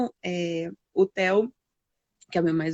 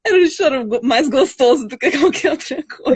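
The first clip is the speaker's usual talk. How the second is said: higher and louder, voice breaking into tears and laughter; crying while laughing; 5 semitones higher, 8 dB louder than usual. Real, not acted. Mother telling host how her son comforted her, crying and laughing. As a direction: let the tears spill as you speak.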